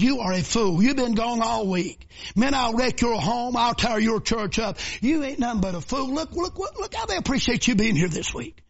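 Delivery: a hint of a sneering devil, slowed; mocking devil. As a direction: taunt him lightly, like the devil whispering doubt. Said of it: "The devil told him".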